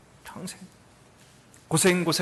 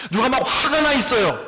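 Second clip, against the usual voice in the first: higher, louder angry report; angry outburst; 10 semitones higher, 9 dB louder than usual. Shown as a demonstration. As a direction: shout it like someone furious. Acting an angry person. (화난 목소리로 크게)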